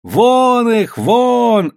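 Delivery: high, loud chant to drive them out; crowd yelling. A narrator's reading. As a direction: bellow with the angry mob. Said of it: "орала толпа".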